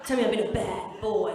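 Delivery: broad Shepton Mallet bed talk; Shepton Mallet accent. Retold or imitated. Partner talking dirty, in a Shepton Mallet accent. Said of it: "he's from Shepton Mallet".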